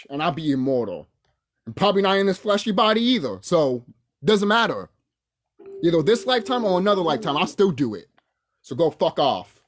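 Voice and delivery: loud, heated threats of revenge; furious threats. Real, not acted. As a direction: threaten them with mounting rage. Threatening rant.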